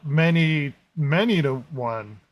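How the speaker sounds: hammed-up dramatic line; bad acting. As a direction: overplay it like a bad actor. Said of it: "imagine me going like".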